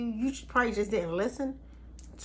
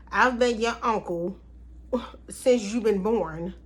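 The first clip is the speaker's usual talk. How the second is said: imitating an annoyed uncle. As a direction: play the hurt uncle, lightly put out. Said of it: "Unc was ticked off".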